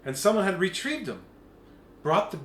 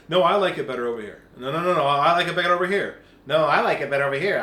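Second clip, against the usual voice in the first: arguing voices; 2 semitones lower, 6 dB louder, much faster than usual. Retold or imitated. People arguing sides.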